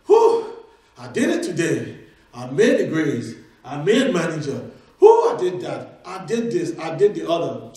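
mock a person proud of their day's feats; self-congratulating. Acts out a self-congratulating boaster.

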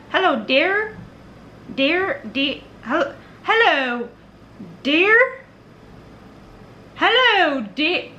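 amateur Irish accent, repeated tries with swooping pitch; attempted Irish accent. Shown as a demonstration. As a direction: keep testing an Irish greeting, lilting up and down. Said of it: "They would be like".

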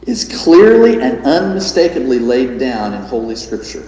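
solemn reading. A narrator's reading. Preacher reading J C Ryle's notes aloud, solemnly. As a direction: read with gravity and emphasis. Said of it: "when he says this".

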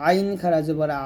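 "আইন" squeezed from mid-throat, final "আ" held long; pressed throat ain. Shown as a demonstration. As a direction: press "আ" from the middle of the throat and stretch it. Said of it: "আইনটা মাঝখান থেকে চাপ দিবেন".

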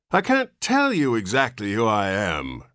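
put-on high, whining old man's voice; a newborn old man complaining in a reedy whine; querulous whine. A narrator's reading. Old man whining at his father, querulous. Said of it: "replied the querulous whine".

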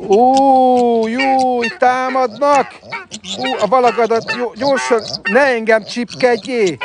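high, startled yelps as birds peck; alarmed squeals. Real, not acted. Keeper pecked by ducks, squealing high in alarm.

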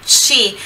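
Chi with a strong double C sound; Italian double C. Shown as a demonstration. Teacher modelling the Italian double C, firm. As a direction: hit the doubled C in Chi firmly. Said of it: "pronúncia do C C".

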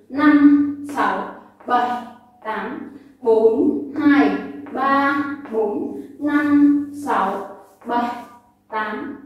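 rhythmic beat counting; counting workout reps. Shown as a demonstration. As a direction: call out the eight counts. Instructor counts dance beats.

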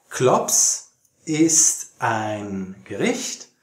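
ordinary delivery

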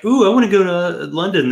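high, swooning mock of an eager traveller; mock goat guy. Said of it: "one of the goat guys was like".

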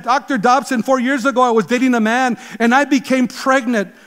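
quoting a caller's anguished question to Dr Dobson, mildly pleading; imitating anguished plea. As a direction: voice a desperate young woman, lightly played. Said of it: "this anguished question".

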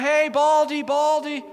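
put-on high, loud jeering boys; mocking taunt. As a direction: imitate kids teasing a passer-by. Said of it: "they start making fun of him".

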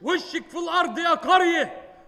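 herald announcement. Acted. Announcing the mayor's arrival.

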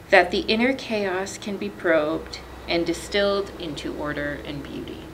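gentle, measured reading of a reflective passage; reading aloud. Acted. Librarian sharing a beloved Sarton passage, gently measured. Reads a prose quotation.

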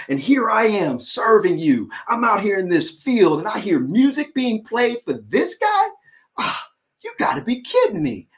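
rising, heated protest that breaks into a shout; angry elder brother. Retold or imitated. Elder son protesting to his father, angry. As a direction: pour out resentment at the father. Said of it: "He was so angry".

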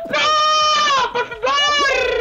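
high-pitched drawn-out wail; stretched, frantic high plea; desperate pleading. Real, not acted. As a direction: beg the game at a shriek. Pleading to climb in the game.

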